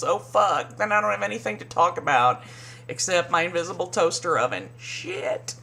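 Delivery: fast, flustered put-on voice ending in a whispered curse; mock Sonja. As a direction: panic like you've been caught out. Voicing Sonja's panic.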